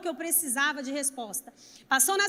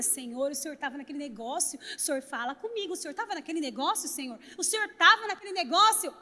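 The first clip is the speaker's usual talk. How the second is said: quiet doubting prayer; 4 semitones lower, 5 dB quieter than usual. Retold or imitated.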